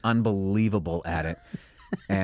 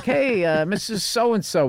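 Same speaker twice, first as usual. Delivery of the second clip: phone sales voice; 9 semitones higher, 4 dB louder, slower than usual. Retold or imitated. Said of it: "my fake name was, like, Bill McDonald".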